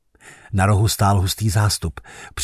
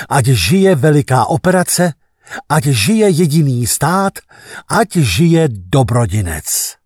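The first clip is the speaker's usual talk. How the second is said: building official cheers; rousing slogans; 3 semitones higher, 3 dB louder than usual. Acted. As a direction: hail the state with pride. Chanted state slogans. (nadšené provolávání hesel)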